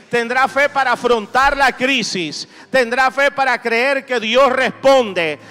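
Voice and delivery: impassioned preacher rallying the congregation; fervent preaching. Real, not acted. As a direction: preach with driving, rhythmic conviction, building through repeated phrases. Predica con fuerza ante la congregación. (prédica ferviente y enérgica)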